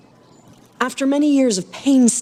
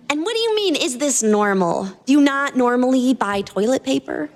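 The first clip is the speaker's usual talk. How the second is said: put-on amused girl; 4 semitones higher than usual. Adrian questioned, voiced high.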